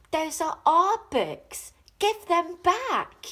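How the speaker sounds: loud, high and slow shout; yelled. A narrator's reading. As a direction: demand it back, angrily. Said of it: "the children yelled".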